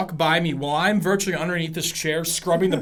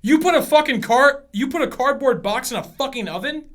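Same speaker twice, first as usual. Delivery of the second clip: appalled disbelief; 5 semitones higher, 4 dB louder than usual. Acted. Acted argument, appalled at cardboard.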